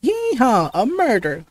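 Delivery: southern reporter whooping over a scoop; excited southern shout. Acted. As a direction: Yeehaw hollered high in a southern accent. Reporter runs after scoop.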